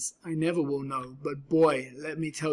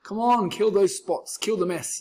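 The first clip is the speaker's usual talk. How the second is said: louder, cheering storybook yell; rally the little cats into action; 5 semitones higher, 6 dB louder than usual. Acted. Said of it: "yelled the cats".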